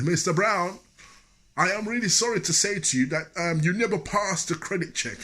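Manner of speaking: high, loud apology blared across the shop; shouting clerk. Retold or imitated. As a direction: announce the bad news loud for everyone to hear. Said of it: "he was always shouting".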